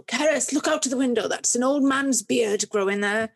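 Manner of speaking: lightly voiced Swansea accent, a teacher calling to a pupil; a hint of a Swansea teacher's lilt; teacher on the school bus pointing out a plant, in a light Swansea accent. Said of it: "but with a Swansea accent".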